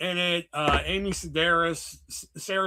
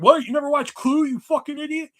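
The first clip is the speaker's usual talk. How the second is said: mocking disbelief; 8 semitones higher, 4 dB louder than usual. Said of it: "Be like".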